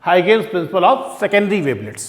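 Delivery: slow, deliberate naming of the principle; slow announcing. Shown as a demonstration. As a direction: spell out the title slowly for notes. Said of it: "तो वही हम लोगों को पढ़ना है".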